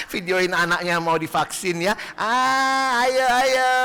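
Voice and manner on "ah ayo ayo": higher, louder teasing mom voice; mother filming her child's shot, high and teasing; amused mother. Acted. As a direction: egg him on while filming.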